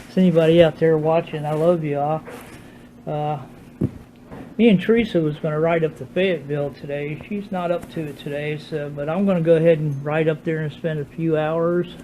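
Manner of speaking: talking without his teeth in; gummy speech, no teeth; no dentures in. Real, not acted. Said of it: "Still haven't put my teeth in".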